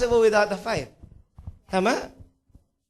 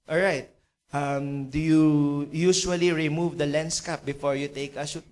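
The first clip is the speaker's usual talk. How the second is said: low, hesitant questioning; subdued, halting acted businessman; sad, low expectations; 4 semitones lower than usual. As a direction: check carefully, with little hope. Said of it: "malungkot na malungkot, dahan-dahan, without much expectation".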